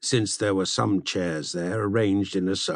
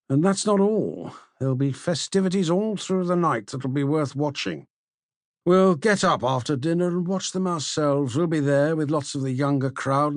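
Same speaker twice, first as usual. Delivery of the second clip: higher, lightly voiced young host; persuasive Polemarchus; 4 semitones higher than usual. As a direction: coax them warmly to stay. Polemarchus urging them to stay.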